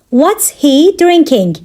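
measured language-lesson delivery; slow teaching repeat. Shown as a demonstration. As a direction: take it steadily for learners. Teacher repeats question slowly for learners.

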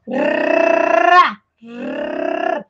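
"rá" with a long rolled R; trembling R. Shown as a demonstration. Teacher demonstrating to the class, long trilled R in "rá". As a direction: let the R tremble on the tongue before the Á. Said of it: "Aí ele fala assim".

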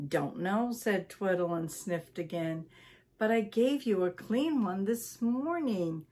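lively read-aloud storytelling voice; story narration. A narrator's reading. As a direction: read it to listeners like a bedtime book.

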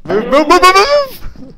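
yelling move over and over; frantic shout to run; urgent shouting. Real, not acted. Urging teammates to flee.

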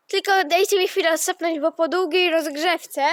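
winded after warm-up riding; catching breath between words. Real, not acted. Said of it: "troszkę się zmęczyliśmy".

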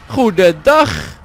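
slow, drawn-out hammed-up goedendag; mock greeting. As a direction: stretch it like a pompous greeting. Grappige begroeting. (overdreven trage begroeting)

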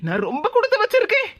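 acted weepy thanks, rising at the end; hammed-up grateful weeping; tearful gratitude. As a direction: gush tearfully, overcome with gratitude. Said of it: "அழாதம்மா, சொல்லத கேளு".

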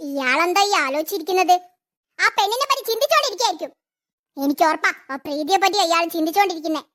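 low, private plotting to herself; a schemer sizing up her boss; scheming aside. Acted.

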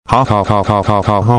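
mechanical, evenly repeated "ha"; mock laugh. Narrator acting out his rampage, mechanical mock laugh. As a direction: stiff looping laugh with no mirth.

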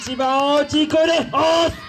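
fast and high, stress on "声"; big rally shout. Acted. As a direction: whip the crowd into yelling.

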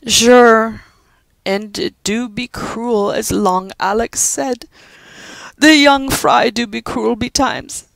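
high, slow Irish brogue, gently sorrowful; old Irish servant comforting a child; consoling Irish housekeeper. Acted. Judy comforting weeping Pat in a brogue.

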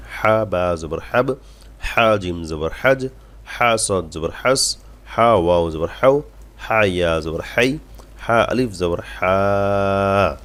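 very slow, drawn-out spelling drill; model recitation. Shown as a demonstration. Teacher modelling the chapter for practice, slow measured recitation. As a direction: stretch every letter, hold the last হা long. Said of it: "এই অধ্যায়টা একটু বেশি করে পড়বেন".

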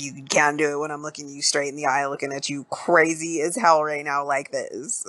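crazed stare. Retold or imitated. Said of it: "he lunges towards him ... eyes all bulged out".

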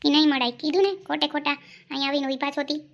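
loud, fast brush-off; loud curt no, then quick scolding; curt refusal. Acted. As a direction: shut her down loudly.

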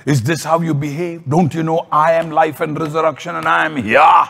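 exasperated scolding, rising to a shout at the end; hammed-up telling-off, building to an outburst; mock tantrum. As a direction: play an indignant tantrum that ends in a yell. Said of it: "Jesus didn't throw a tantrum".

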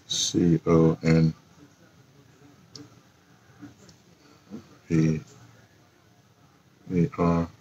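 absent-minded spelling while typing; spelling out slowly. Real, not acted. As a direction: spell it to yourself as you type, with long gaps.

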